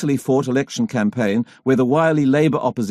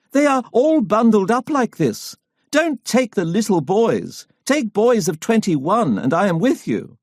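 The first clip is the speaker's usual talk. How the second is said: put-on elderly lady; 8 semitones higher than usual. A narrator's reading. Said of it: "stooping down as if under a great weight".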